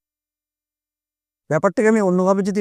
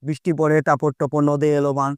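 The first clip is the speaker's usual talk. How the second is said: rhyme recital; 3 semitones lower than usual. Shown as a demonstration. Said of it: "ছোটবেলা আমরা ছড়া পড়েছি না".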